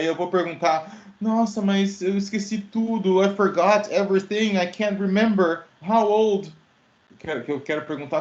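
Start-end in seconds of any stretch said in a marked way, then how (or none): 1.2-6.5 confused amnesiac. Pretend. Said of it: "Digamos que eu bato, que eu bati a cabeça, perdi a memória".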